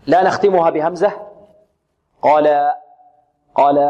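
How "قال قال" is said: قال with the alif tilted or cut with a glottal stop; wrong alif ending. Shown as a demonstration. Teacher showing students the wrong قال. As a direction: end قال wrongly on a hamza. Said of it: "البعض يقول".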